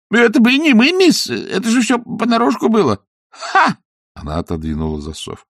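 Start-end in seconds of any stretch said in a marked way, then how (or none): 0.1-3.8 high, loud panicky denial; panicked protest. Acted.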